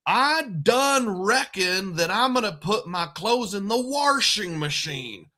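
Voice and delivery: slow, high rural Missouri hick accent. Shown as a demonstration. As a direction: drag it out in an exaggerated country hick accent. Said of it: "Just that kind of accent".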